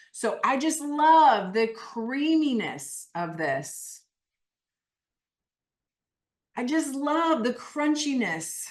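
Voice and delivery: drawn-out, relishing stress on love; emphatic, animated. Shown as a demonstration. Coach modelling food praise for the group, animated. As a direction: savour it slowly and emphatically. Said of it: "why I'm saying it so animated".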